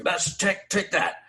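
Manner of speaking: high-pitched imitated triumph; mock defiance. Sailor throwing the prank object overboard, high mock defiance. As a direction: say it high, as if hurling something away.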